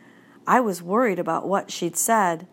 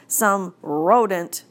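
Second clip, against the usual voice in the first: rodent drawn out slowly with disdain; distinctive rodent; 3 dB louder, slower than usual. Acted. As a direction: linger on rodent like it tastes bad. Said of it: "Nobody says rodent quite the way".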